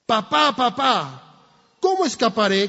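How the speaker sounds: put-on high, loud scared child calling for his father; child crying out. Trapped child screams to his father from the fire, high and loud. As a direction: cry out high and frightened for papa. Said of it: "gritaba el niño".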